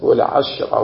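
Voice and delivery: والعشرة with the shin closing its syllable; sukun on the shin. Shown as a demonstration. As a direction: say والعشرة as "wal-ashra", no vowel after the shin. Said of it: "يجوز فيه التسكين والفتح والكسر".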